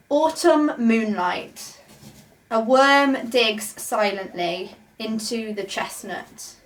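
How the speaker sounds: slow, measured haiku reading; poem reading. Shown as a demonstration. Teacher reading Basho's haiku aloud to learners, slow and measured. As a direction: read it slowly, savouring each image. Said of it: "I'm gonna show you an example".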